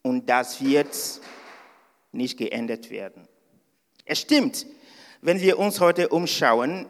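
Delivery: ordinary delivery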